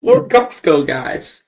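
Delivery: slow drawn-out meme catchphrase; Costco guys impression. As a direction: stretch the catchphrase slowly. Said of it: "I wanna do the ... thing".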